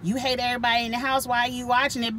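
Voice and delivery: fast, lightly voiced Twitter critic; mocking Twitter critics. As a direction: rattle it off like a smug commenter. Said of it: "people on Twitter be like".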